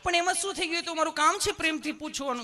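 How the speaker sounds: very high, sugary nurse voice; hammed-up tender nurse; loving nurse. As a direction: coax a nervous patient sweetly. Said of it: "પ્રેમથી પૂછો છો".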